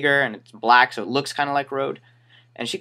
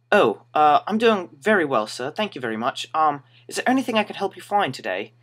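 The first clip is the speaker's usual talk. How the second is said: higher-pitched customer-service politeness; awkwardly polite; 4 semitones higher than usual. Retold or imitated. Store worker answering a Spanish-speaking customer, awkwardly polite. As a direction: answer politely through the confusion.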